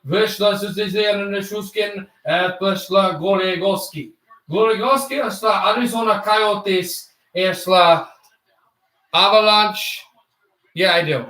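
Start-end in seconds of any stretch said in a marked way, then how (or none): 0.0-10.0 made-up foreign-language play-by-play; mock French commentator. Shown as a demonstration. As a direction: fake a French broadcast with invented words. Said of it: "I'm just gonna make up words".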